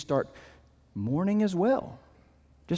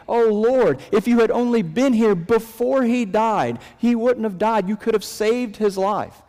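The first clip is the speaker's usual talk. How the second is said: higher and louder, a pleading lament; pleading Mary; 4 semitones higher, 3 dB louder than usual. Retold or imitated. Mary runs out to Jesus, higher and louder pleading lament. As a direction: plead with Jesus, voice raised in grief. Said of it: "she basically says the same thing".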